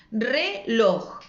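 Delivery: RELOJ split re-LOJ, weight on the end; stress on last syllable. Shown as a demonstration. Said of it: "La última es la que suena con más fuerza". (reloj con fuerza en la última sílaba, re-LOJ)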